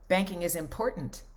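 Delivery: im-POR-tant, middle syllable punched; stress on middle syllable of IMPORTANT. Shown as a demonstration. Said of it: "emphasis on certain syllables and things".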